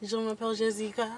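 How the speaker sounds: steady French greeting; put-on French accent. Shown as a demonstration. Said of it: "we haven't put down French".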